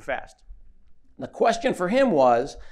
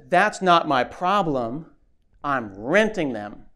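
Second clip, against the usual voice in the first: slow, deadpan shrug of a line; slow mock-casual comeback to a heckler; slow unbothered reply; slower than usual. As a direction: let each word land slowly, not caring.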